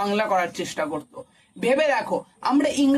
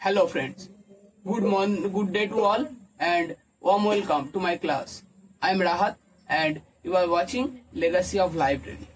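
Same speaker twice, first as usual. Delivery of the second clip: timid topper's introduction; 6 semitones lower, much slower than usual. Retold or imitated. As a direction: mumble the greeting like an unconfident student. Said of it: "কেমন ভাবে বলবে?".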